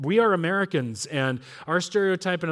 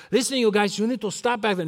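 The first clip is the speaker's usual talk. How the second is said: put-on dad putting on a Cheech and Chong style accent; dad's comic accent. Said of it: "talking to us like this with this accent".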